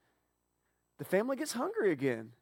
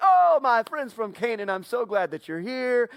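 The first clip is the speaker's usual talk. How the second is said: over-friendly welcome; 4 semitones higher, 6 dB louder than usual. Acted. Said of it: "He's like".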